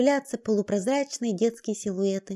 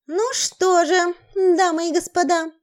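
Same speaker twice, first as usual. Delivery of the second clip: lively; 6 semitones higher, 5 dB louder, slower than usual. Acted. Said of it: "оживлённо заговорила директриса".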